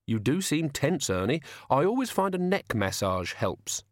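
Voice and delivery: sweetly polite gang leader; genial menace. Acted. Tea Time offers the tense driver a neck massage, genial menace.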